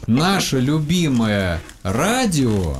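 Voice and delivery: very slow, word by word; slow dictation. Shown as a demonstration. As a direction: dictate each word slowly. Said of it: "Я буду непонятно говорить".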